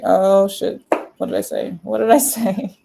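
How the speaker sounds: loud oh, then baffled questions; hammed-up alarm at a blunder; mock dismay. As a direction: act caught out and bewildered. Voices man dismayed by her tears.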